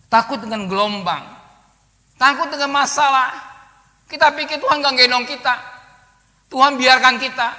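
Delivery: loud, high preaching; preaching at full force. Acted. Preacher loudly warning the church about fear. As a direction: drive it home to the hall.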